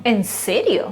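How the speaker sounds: short incredulous question, pitch lifting on the first word; surprised doubt. Acted. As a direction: ask "¿En serio?" as if you can't believe it. Student doubts the claim.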